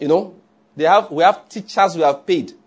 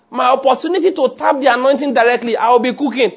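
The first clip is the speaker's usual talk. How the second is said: Mary's voice; 6 semitones higher than usual. Acted. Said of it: "Mary said".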